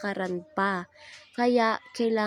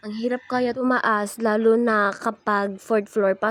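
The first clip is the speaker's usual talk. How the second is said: panting after the stairs; breathless from climbing stairs; out of breath; 5 dB louder than usual. Real, not acted. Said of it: "Hingal na hingal dahil pagod".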